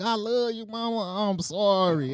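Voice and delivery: slightly subdued mock-sorry child; retold meek apology. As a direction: imitate a kid making up with mama. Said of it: "I gave her a hug".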